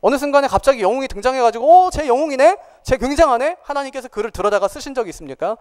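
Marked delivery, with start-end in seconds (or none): 1.9-3.6 higher-pitched, lightly acted amazement; mock admiration. Onlooker marvelling at a sudden hero, mildly amazed. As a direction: imitate an impressed onlooker, pitched up.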